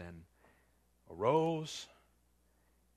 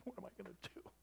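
high, hammed-up fretting; mock panic; 7 semitones higher, 6 dB quieter than usual. Preacher mocks a panicking Jesus he never was, high and hammed-up. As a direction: flap about like a lost man. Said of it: "Jesus doesn't go".

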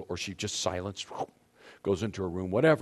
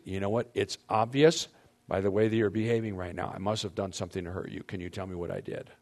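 gentle question. Shown as a demonstration. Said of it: "I want you guys to try this".

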